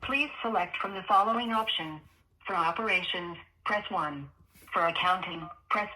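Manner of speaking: recorded automated menu voice; phone menu voice. Real, not acted. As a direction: sound like a phone line recording.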